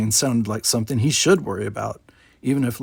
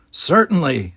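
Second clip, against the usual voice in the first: put-on grumpy old man; 4 semitones higher, 5 dB louder, slower than usual.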